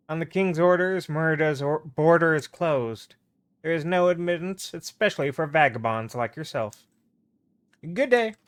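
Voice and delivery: a hint of a stern border official; lightly voiced gate guard. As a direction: refuse entry with official firmness.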